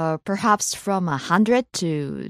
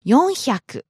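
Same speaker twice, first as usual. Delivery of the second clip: each syllable slowly and distinctly; over-enunciate every sound; slow and clear; 3 semitones higher than usual. Shown as a demonstration. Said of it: "One more time slowly".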